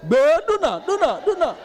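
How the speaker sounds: ringing, repeated taunt fading round the head; haunting echo of an insult. Retold or imitated. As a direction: let the insult echo in your ears. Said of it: "I heard".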